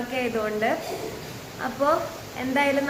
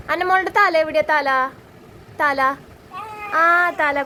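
high, louder sing-song coaxing; 4 semitones higher, 3 dB louder than usual. Real, not acted. Quizzing baby on body parts.

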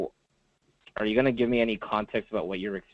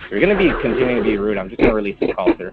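raised stern voice; firm and loud; 10 dB louder than usual. Real, not acted. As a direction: cut him off firmly. Operator losing patience.

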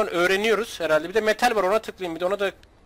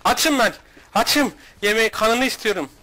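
loud, higher, greedy growl of demands; mock hungry monster; 3 semitones higher, 5 dB louder than usual. Streamer chasing a player in game, mock hungry monster. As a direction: beg for food like a starving ghoul.

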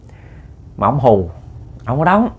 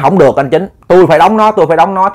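raised, urgent mock protest; feigned insistence; 3 semitones higher than usual. Uncle pretends he must stake the ghost, mock insistence. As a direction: put on a show of refusing to back down. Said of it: "ông làm bộ".

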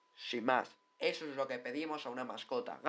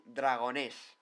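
"Dragonés" slowly, stressed on the final -nés; stress on final syllable; much slower than usual. Shown as a demonstration. Introducing Huesca's mascot, "Dragonés" with final-syllable stress. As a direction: lean on the last E of "Dragonés". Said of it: "con acento en la E".

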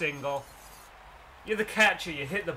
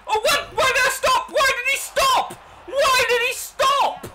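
disbelieving shout; 11 dB louder, slower than usual. Real, not acted. Runner stops unexpectedly.

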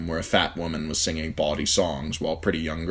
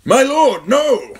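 high, loud urgent cry; old servant cries out to stop Ned; urgent call; 12 dB louder, much slower than usual. Acted. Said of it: "an urgent voice called out".

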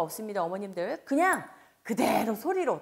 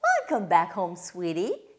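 warm welcome; 3 semitones lower, 4 dB louder, much slower than usual. Shown as a demonstration. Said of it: "이렇게 따뜻하게 맞이하겠죠".

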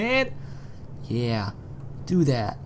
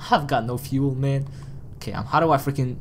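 usual speaking voice

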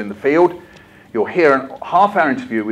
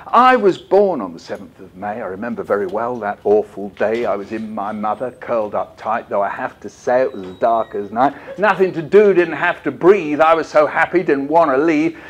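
rhythmic poem reading; poem recitation. Acted. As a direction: recite the rhyme with bounce.

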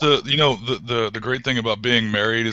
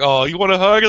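imitating wife; 5 semitones higher, 5 dB louder than usual. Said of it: "And she's like".

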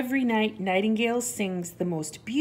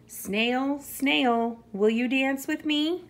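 high, eager mouse invitation; little mouse calling; 8 semitones higher, 5 dB louder than usual. A narrator's reading. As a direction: call the animal, then lift into the question. Mouse calls to an animal.

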